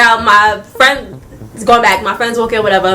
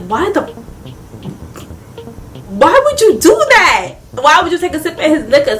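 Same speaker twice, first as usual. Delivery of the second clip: scolding mom; 4 semitones higher than usual. Retold or imitated.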